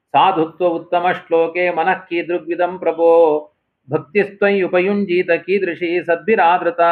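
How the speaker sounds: intoning the shloka; ಶ್ಲೋಕ ಪಠಣ; verse recitation. Acted. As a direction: chant the verse steadily.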